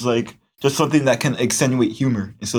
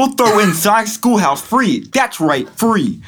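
infomercial voice; 7 semitones higher, 4 dB louder than usual. Pretend. Mock infomercial pitch.

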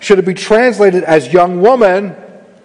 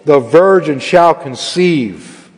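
measured, solemn Bible reading; scripture reading. Acted. Pastor reading the Gospel to the congregation, solemn reading. Reads Matthew passage aloud.

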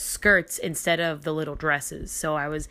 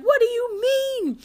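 confused mom; 4 dB louder than usual. Retold or imitated. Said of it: "she was like".

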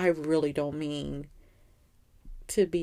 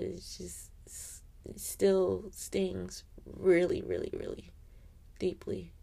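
holding back tears; slower than usual. Real, not acted. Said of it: "I'm trying not to cry".

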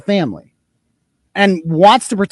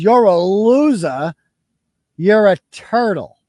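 slow, mock-dull repetition; mocking her insults; 3 dB louder, slower than usual. Blogger mocking the woman's weak insults, slow and scornful. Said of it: "the best you can come up with is".

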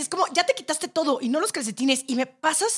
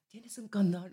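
mock romantic ask; 4 semitones lower, 10 dB quieter, slower than usual. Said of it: "romántico".

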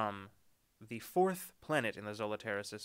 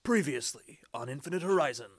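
big movie trailer announcer; bombastic trailer voice; 3 semitones higher, 6 dB louder than usual. Acted. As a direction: boom it out like a trailer. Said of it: "back to bombastic trailer voice".

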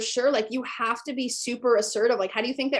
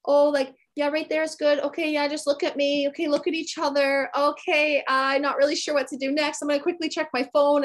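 higher, tentative beginner's voice; timid beginner; 5 semitones higher than usual. Retold or imitated. New photographer fumbling directions to clients, timid. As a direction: lightly mimic an unsure newcomer, pitched up. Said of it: "you're super timid and".

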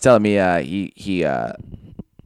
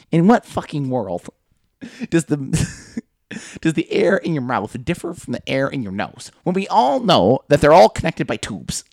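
hammed-up old man rant; 5 semitones higher than usual. Quoting old owner's rant.

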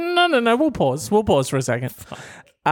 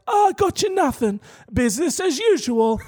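very high sing-out mocking voice; mocked boyfriend; 11 semitones higher than usual. Boyfriend admitting he got her nothing, high mocking voice. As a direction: send him up in a silly high pitch.

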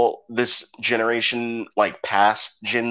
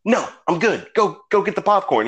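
incredulous brush-off; 8 semitones higher than usual. Retold or imitated. Brothers incredulous at dad.

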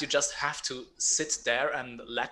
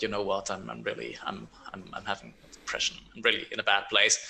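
weary confession; 4 semitones lower, faster than usual. Retold or imitated. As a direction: mumble it heavily, as if it costs effort. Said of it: "And you're like".

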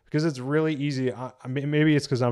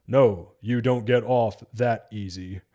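lightly mocked, slow line reading; a hint of a stilted superhero delivery; badly delivered Batman; slower than usual. Reviewer quoting another terrible line delivery, slow and stilted. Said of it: "Here's another Batman one".

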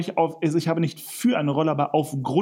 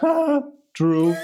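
retort; 11 semitones higher, 4 dB louder than usual. Retold or imitated. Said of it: "sie guckt ihn an und sagt".

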